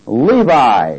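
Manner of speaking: "Levi" set apart with a strong rise and fall; stress on Levi. Shown as a demonstration. Preacher pointing the congregation to a newly numbered tribe, emphasizing "Levi". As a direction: punch "Levi" as a word on its own. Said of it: "now I'm emphasizing a word".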